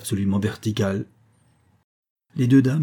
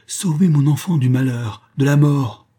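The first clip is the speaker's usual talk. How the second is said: pleading mother; 5 semitones higher, 5 dB louder than usual. Acted. Mother pleading for her child.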